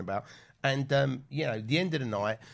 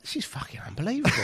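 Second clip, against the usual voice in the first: higher, fast and amazed; 10 semitones higher, faster than usual. Retold or imitated. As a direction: gasp it out in disbelief. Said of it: "And I was like".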